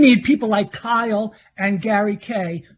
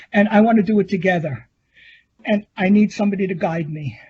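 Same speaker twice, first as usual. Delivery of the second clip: teary. Real, not acted. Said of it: "I'm just very teary and overwhelmed".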